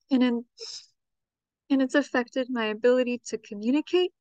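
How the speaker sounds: holding back tears through long pauses; emotional. Real, not acted. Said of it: "I'm getting a little choked up".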